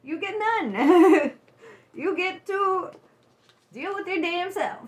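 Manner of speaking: can barely finish for laughing; laughing while talking. Real, not acted.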